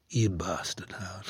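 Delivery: low, soft, sliding into a whisper on Howard; intimate hush. Retold or imitated. A singer across the dinner table, softly intimate. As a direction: lean in close and breathe the name.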